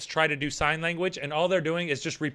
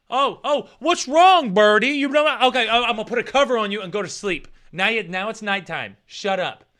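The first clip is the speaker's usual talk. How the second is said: higher, louder sweet-talk to the birdie; mock talking to a pet bird; 3 semitones higher, 3 dB louder than usual. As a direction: coo at the bird, then snap shut up.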